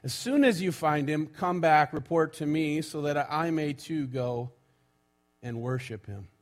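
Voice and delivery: measured public reading of Scripture. Acted. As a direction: read it out to the congregation, phrase by phrase. Reads Scripture aloud to congregation.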